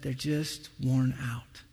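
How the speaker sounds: slow hushed whisper. Acted. Preacher telling church they're worn out, whispered. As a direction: breathe it out exhausted.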